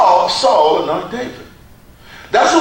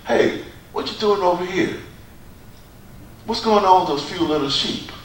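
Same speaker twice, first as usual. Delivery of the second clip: belittling brother; 4 semitones lower, 7 dB quieter than usual. Retold or imitated. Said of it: "what you gonna try to demean him".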